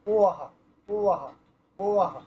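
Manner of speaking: ও আহা with a breathy ha at the end; ও আহা, an aspirated echo after wa; wa with visarga breath. Shown as a demonstration. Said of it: "এমন উচ্চারণ হবে".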